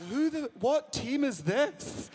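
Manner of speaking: slow, puzzled, high question; a bewildered barman staring at the crowd; confused barman asking who they are; baffled bar staff. Acted.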